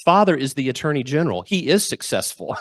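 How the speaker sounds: lightly voiced pious kid brother; mock-solemn defence of Dad, slowing at the end; a hint of sanctimonious little angel; angelic son. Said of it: "with his halo and wings".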